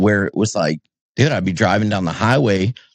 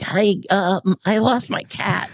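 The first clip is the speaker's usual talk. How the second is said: mocking petty asker; 10 semitones higher, slower than usual. Mimicking people's petty complaint.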